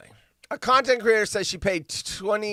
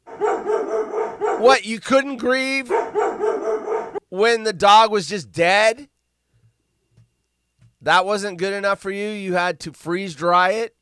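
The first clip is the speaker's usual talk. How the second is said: higher, louder scoffing disbelief; incredulous mockery; 5 semitones higher, 6 dB louder than usual. Real, not acted. Reading about the freeze-dried dog, scoffing loudly. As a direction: scoff at the idea, loud. Mocking woman in news story.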